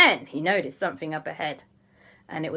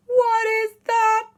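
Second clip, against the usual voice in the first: high, loud, slow shock; astonished question; 8 dB louder, much slower than usual. Acted. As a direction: draw out each word in amazement. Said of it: "But they couldn't say it".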